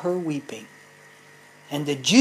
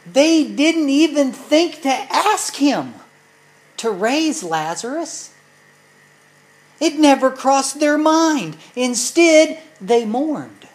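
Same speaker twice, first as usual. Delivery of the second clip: higher, louder preaching push; rising sermon intensity; preaching emphasis; 7 semitones higher, 6 dB louder than usual. Acted. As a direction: drive it home from the pulpit.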